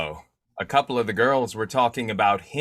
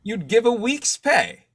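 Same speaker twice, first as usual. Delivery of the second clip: surprised question; 11 semitones higher than usual. Acted. Editor startled by the offer.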